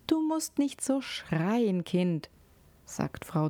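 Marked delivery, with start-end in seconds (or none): 0.1-2.3 higher, drawn-out motherly reproof; admonishing mother. A narrator's reading. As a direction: chide a child without shouting. Mother admonishes her child.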